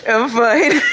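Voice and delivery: high laugh-cry between words; cracking into tearful laughter; unconvincingly fine. Real, not acted. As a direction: insist you're okay while breaking up. Insists she's fine, breaking down.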